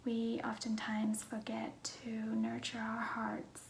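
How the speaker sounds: hushed, half-whispered self-introduction; soft-spoken vlog. Real, not acted. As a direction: talk gently, close to a whisper.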